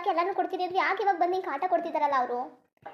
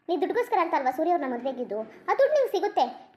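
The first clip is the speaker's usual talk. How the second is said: mocking laugh. Nandini's mother mocks the wife over the money, laughing. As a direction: laugh her motives off.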